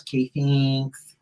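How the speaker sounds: slow, weedy Midwestern housewife; weedy little voice. Retold or imitated. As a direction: stretch it out thin and weedy. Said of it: "put on this weedy little voice".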